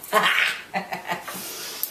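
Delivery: short laugh at one's own jab; taunting laugh. Real, not acted. Teasing Karen about big words, a short taunting laugh. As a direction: laugh right after the dig.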